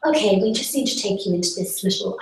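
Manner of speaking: lightly acted British official; British accent. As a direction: put on a British accent for the woman. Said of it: "why the woman was British".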